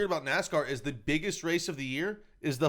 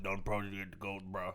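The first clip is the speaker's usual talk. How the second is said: Cajun drawl; 8 semitones lower, 11 dB quieter than usual. Retold or imitated. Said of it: "it would be more like".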